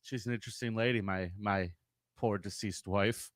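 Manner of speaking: mock grieving husband. Plays husband, soft and slow.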